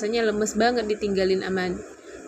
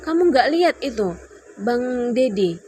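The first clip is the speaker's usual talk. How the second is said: raised, higher and louder mock shout; retold yell; 5 semitones higher, 6 dB louder than usual. Wife arguing with husband about his friend, retold yell. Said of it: "Terus aku teriak kan".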